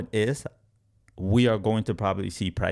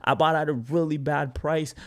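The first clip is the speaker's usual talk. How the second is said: lightly voiced, higher regretful investor; a touch of mock despair, pitched up; mock dismayed buyer; 6 semitones higher than usual. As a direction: act out a buyer's mild dismay at a bad entry. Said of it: "You're like".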